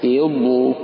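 الله distorted to "eh-llo", first a bent to e; wrongly tilted hamza. Shown as a demonstration. Teacher shows what it is not, الله starting with eh. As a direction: open الله on "eh". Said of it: "وليس".

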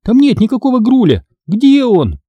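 high and sharp with rising panic; indignant, panicky. Acted. Girl realises the creature is gone, indignant panic. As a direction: demand an answer, losing control. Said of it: "возмутилась я".

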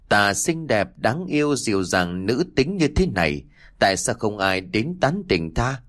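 lightly voiced lamenting maiden; a touch of mock self-pity, girlish; man doing a woman's voice. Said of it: "Từng lời nói nghẹn ngào mang theo vẻ ai oán".

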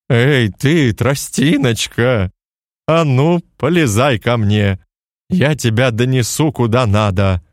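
a slow, booming giant call; dim slow booming giant. Acted. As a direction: boom it out like a big simple giant. Giant calls to Morgan.

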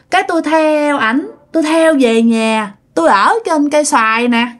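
lightly voiced girl spirit; a hint of a ghost girl confiding; girl's voice. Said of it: "bây giờ nói giọng con gái luôn".

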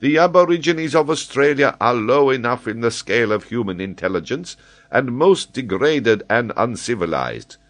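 an excitable scholar holding forth; high, animated geographer explaining; Paganel, eager learned Frenchman. Acted.

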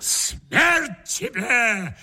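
very slow, stagey shout of triumph; gloating cry. A narrator's reading. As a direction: hurl it with spiteful triumph. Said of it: "вскричал я со злобным торжеством".

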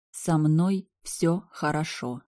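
slow, even and unbothered; feigned calm. Acted. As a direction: pretend nothing is wrong. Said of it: "как ни в чём не бывало".

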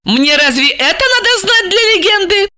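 high, rising fury; growing furious. A narrator's reading. Angry wife to her handler, high rising fury. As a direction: ask through mounting rage. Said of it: "зверея спросила Ася".

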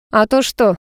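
lightly teasing challenge; a touch of a smirk; mildly cocky comeback. A narrator's reading. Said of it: "усмехнулся парень".

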